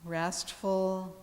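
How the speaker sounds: calm yoga teacher with long, restful pauses; guided meditation. Real, not acted. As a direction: guide them gently into relaxation, unhurried, letting each phrase settle. Leads yoga relaxation.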